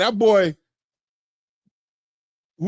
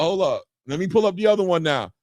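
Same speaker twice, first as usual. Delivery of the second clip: ordinary talk, nothing marked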